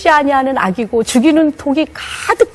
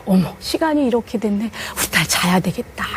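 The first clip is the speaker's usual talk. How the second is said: softer, gentle hush; soft bedtime voice; 4 semitones lower, 8 dB quieter than usual. Retold or imitated. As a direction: lull her daughter to sleep. Mother gently puts child to bed. (딸을 재우는 엄마, 부드럽게 속삭이듯)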